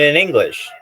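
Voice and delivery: loud, exasperated rant about the show's name. Real, not acted. Streamer ranting to chat about an NFT show's name, loud. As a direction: belt out the complaint in disbelief.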